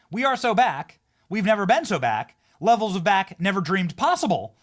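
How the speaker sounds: a lightly voiced, eager howl of "We've never been so back"; half-hearted imitation of a triumphant howl; Tucker Carlson howl. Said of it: "as Tucker Carlson howls".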